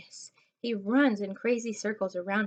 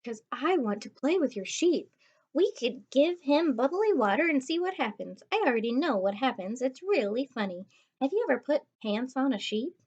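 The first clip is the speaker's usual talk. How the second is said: put-on higher, fast-chattering girl voice; eager pushy girl; 4 semitones higher than usual. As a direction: pester them with ideas. Gigi pestering to play.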